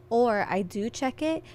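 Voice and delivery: quick hushed aside; whispering. Real, not acted. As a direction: drop to a whisper. Aside about checking texts.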